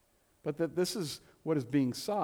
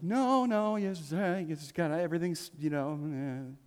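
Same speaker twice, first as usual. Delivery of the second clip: flustered deflecting; 3 semitones higher than usual. Retold or imitated. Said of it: "and you're like".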